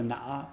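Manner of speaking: "na" said as standard Mandarin. Shown as a demonstration. Teacher gives the standard "na" for the rest of China. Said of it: "in the rest of the country".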